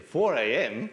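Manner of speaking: young man startled at a 4 AM start, half-acted; incredulous echo. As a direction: play him aghast at the early start. John shocked at early departure.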